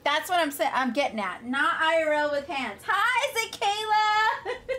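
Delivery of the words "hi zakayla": slow, high, laughing greeting; laughing hello. Real, not acted. Greeting a viewer in chat, slow and laughing. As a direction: stretch the name out through laughter.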